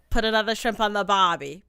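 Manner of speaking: a hammed-up Aussie cliché line; mock Australian accent. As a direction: deliver it like a cheesy Australian ad.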